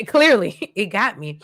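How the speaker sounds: a real laugh at being so moved; laughing at herself. Real, not acted. To her viewers, admitting she's moved, real laugh.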